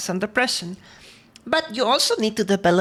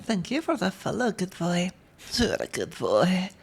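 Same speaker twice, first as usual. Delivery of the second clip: soft praise; 2 semitones lower, 5 dB quieter than usual. Acted. ASMR-ish praise to follower.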